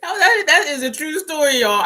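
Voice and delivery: high, loud laughing insistence; through laughter. Real, not acted. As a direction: vouch for it while still laughing. Recovering from laughing at her story.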